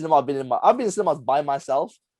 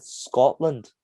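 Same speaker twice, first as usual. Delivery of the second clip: teacher mimicking a Scottish accent; imitated Scottish accent; 3 semitones lower than usual. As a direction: say it in a mock Scottish voice. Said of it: "he just said it in the voice".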